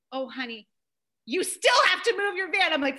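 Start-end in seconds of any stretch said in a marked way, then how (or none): 0.1-0.7 softer, soothing secretary; retold sympathy. Secretary comforting a bawling mom, gently soothing. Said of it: "she stops and she's like". 1.3-2.7 higher, singled-out insistence after sympathy; gently mock a secretary holding firm; retold insistence. Secretary still making mom move the van, insistent.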